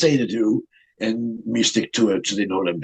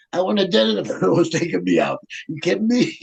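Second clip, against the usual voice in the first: higher, incredulous, laughing protest; laughing disbelief; 6 semitones higher than usual. Real, not acted. Wrestler protesting being taken out, laughing disbelief.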